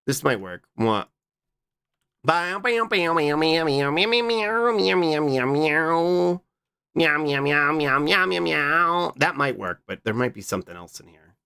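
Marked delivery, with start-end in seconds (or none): 2.2-9.1 playful yapping then meowing; dog and cat noises. Acted. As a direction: bark like a pup then slide into meows. Making animal noises.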